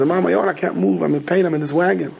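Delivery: plead, lightly acting out helplessness; pleading complaint.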